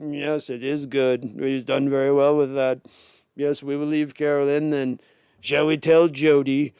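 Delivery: put-on slow, haughty British baron accent; mock evil British lord. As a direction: lightly play a scheming British lord on the committee. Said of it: "evil British accents".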